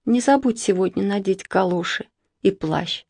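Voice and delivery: drowsy and soft; half-asleep reminder; sleepy voice. Acted. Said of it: "сказала она сонным голосом".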